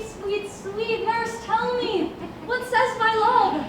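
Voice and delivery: sweeten her up slowly; coaxing. Acted. Juliet coaxing nurse.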